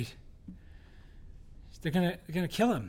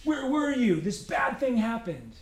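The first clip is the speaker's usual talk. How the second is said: higher, accusing complaint; mad at God; 4 semitones higher than usual. Acted. Believer coming to God all mad, accusing. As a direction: throw the question at God like a hurt child. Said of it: "We come to God all mad".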